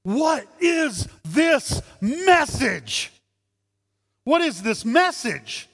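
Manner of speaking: high, slow astonished question; amazed crowd. Retold or imitated. Amazed people in the synagogue asking each other, slow astonishment. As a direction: draw it out in wonder. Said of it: "But they both said this".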